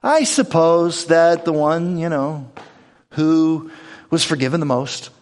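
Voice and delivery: halting, lightly sarcastic answer. Retold or imitated. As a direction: drag it out with grudging sarcasm. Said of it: "this seems very sarcastic".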